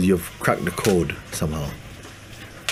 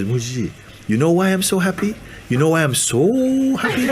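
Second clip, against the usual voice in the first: high, eager question swooping up on "so"; overjoyed sadhu; 9 semitones higher than usual. Retold or imitated. Sadhu asking his teacher to guess why he's happy, overjoyed. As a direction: imitate someone bubbling over with happiness.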